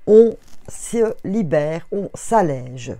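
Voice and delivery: drawn-out calm invitation to relax; slow soothing guidance. Acted. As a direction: ease them into letting go. (voix lente et apaisante)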